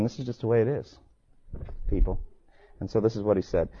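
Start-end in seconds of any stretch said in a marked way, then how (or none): 0.0-2.2 flat matter-of-fact. Retold or imitated. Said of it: "He's just sitting there and he's saying".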